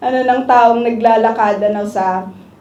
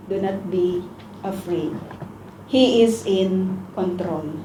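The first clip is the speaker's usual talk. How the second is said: tender reassurance; 5 semitones lower, 8 dB quieter, slower than usual. Acted. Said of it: "Sabi po ng Panginoon".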